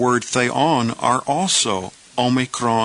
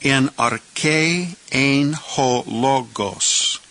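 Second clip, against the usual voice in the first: "ein ho logos" drawn out very slowly after "En arche"; slow careful reading; 2 semitones higher, much slower than usual. Shown as a demonstration. Teacher reading the clause to beginners, very slow. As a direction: read the Greek clause slowly for learners. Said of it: "Now let's say the whole clause".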